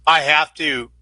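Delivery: breathing heavily after jumping. Real, not acted. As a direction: talk while winded, out of breath. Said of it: "Sorry for the heavy breathing".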